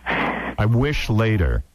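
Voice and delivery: incredulous repeat. Retold or imitated. Host echoing the guest's rude remark, slow and pointed. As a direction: repeat it very slowly, letting each word hang.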